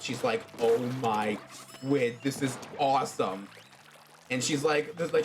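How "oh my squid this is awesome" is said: shocked delight. Retold or imitated. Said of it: "in shock and freaked out".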